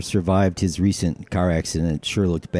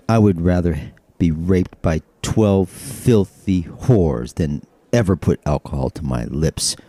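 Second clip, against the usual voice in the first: prim Mormon; 2 semitones lower, slower than usual. Acted. Mormon refusing a drink, primly.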